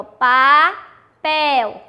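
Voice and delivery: "papel" stretched into two syllables, weight on "pel"; stress on PEL. Shown as a demonstration. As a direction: draw out "papel", pausing before a strong "pel". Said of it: "O pel é mais forte". ("papel" bem devagar, separando e marcando o "pel")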